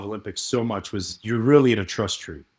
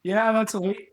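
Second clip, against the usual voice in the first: hammed-up Scottish bloke, pitched high; Scottish accent; 11 semitones higher than usual. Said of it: "I just wanna have a Scottish accent".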